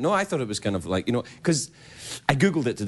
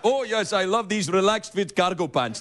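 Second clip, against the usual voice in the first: ad model voice; 5 semitones higher than usual. Pretend. The speaker voicing a Gap ad.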